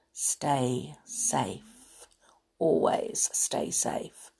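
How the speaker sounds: soft whispered reminder; whispering. Real, not acted. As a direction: whisper it gently. Sign-off caring reminder.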